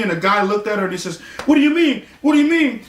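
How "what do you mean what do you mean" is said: baffled question. Retold or imitated. Startled man answers the girl.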